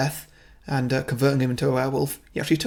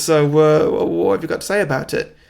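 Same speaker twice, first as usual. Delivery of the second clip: louder, halting annoyed interviewer; really annoyed; 2 semitones higher, 5 dB louder than usual. Acted. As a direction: press for an answer with mild exasperation. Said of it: "really annoyed".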